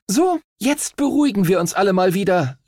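high-pitched captain's call. A narrator's reading. Captain to quarrelling players, calling out. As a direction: call the squabblers to order. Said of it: "rief die Kapitänin".

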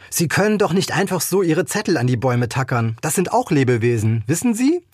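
a lightly voiced older woman, indignant, rising on the last question. Older woman scolds Tiller for tacking up notices, mildly indignant. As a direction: scold her for tacking up notes, a touch shrill at the end.

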